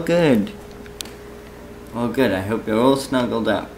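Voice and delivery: normal talking voice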